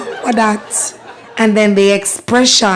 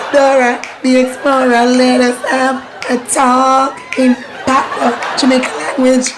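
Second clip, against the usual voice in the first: playful call; 3 semitones higher than usual. Pretend.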